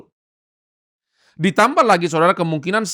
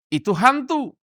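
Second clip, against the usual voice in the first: startled cry; 7 semitones higher than usual. A narrator's reading. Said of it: "mereka terkejut dan berseru".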